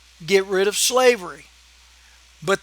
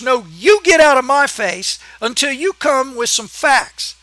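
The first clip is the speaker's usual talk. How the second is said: angry retort; 2 semitones higher than usual. Real, not acted. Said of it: "I'm sorry to rant".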